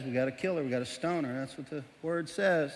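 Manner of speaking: defuse them gently; lightly voiced calm Jesus. Jesus calmly agrees.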